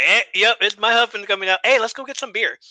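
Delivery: high, loud mock cheerful wife; hammed-up chirpy wife. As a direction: play the eager wife steering friends away.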